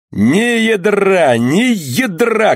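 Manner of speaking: slow, high, drawn-out frenzied cry; frenzied shouting. Acted. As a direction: scream it in a wild frenzy. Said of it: "кричал Кернок в страшном исступлении".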